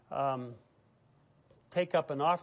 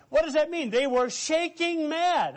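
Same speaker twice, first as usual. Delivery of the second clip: preacher at full fire, much higher; impassioned preaching; 11 semitones higher, 4 dB louder than usual. Acted. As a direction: drive it home, shaking mad. Preaching climax on indignation.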